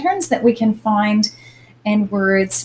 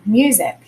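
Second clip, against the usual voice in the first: music with the first syllable stronger; music, emphasis up front, falling away; stress on MU. Shown as a demonstration. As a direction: lean on the muse of music. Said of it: "is the piece that has more emphasis".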